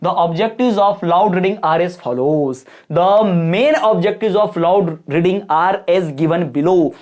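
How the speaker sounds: very slow, word by word model answer; slow dictation. Shown as a demonstration. Teacher dictates exam introduction to students, very slow. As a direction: dictate the opening lines slowly. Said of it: "आप थोड़ा सा theory दो".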